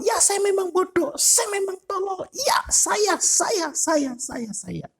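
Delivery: high, fading into a mumble; self-pitying despair. Acted. Preacher acting a believer who agrees he is stupid, despairing and fading. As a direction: give in to self-loathing, trailing off.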